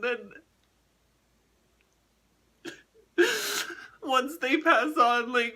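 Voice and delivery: real sobs breaking the sentences; sobbing. Real, not acted. Sobbing while talking about loss.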